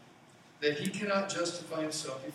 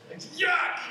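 disgusted yuck; 7 dB louder than usual. Real, not acted. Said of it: "disgust at the maggots".

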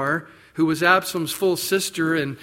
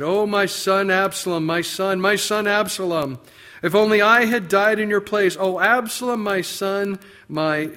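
raised, higher anguished lament; loud grieving cry; 5 semitones higher, 5 dB louder than usual. Retold or imitated. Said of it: "and he said it loudly".

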